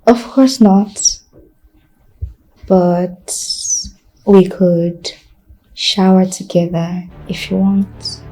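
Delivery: seductive. Acted. Seducing Damien, slow and soft.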